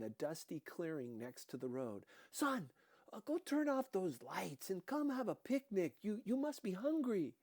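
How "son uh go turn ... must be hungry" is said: smother the cop with hospitality. A narrator's reading. Dika voiced by narrator.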